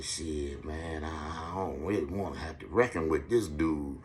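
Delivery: put-on boy nervously admitting his fear; scared mutter. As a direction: mumble it like a scared new kid. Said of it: "And I said".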